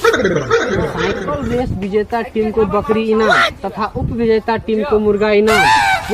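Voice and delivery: slow mock announcer read; imitating the ad. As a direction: parrot the announcement with a laugh. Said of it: "ई त cycle race बारे". (मज़ाक में विज्ञापन की नकल)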